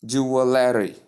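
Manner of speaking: "jewelry" as JOO-uh-LAIR-ee; wrong pronunciation. Shown as a demonstration. Teacher shows what to avoid, wrong JOO-uh-LAIR-ee pronunciation. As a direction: add a LAIR beat to "jewelry". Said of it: "and not".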